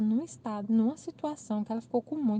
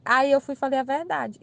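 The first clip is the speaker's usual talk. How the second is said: ordinary talk, nothing marked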